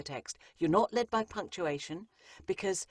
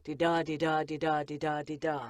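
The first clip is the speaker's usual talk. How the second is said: even, repetitive di-da beat; monotonous singsong rhythm. Shown as a demonstration. Narrator falling into a rhythm, droning evenly. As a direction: tick along like a treadmill. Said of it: "I'm not suggesting that anybody goes".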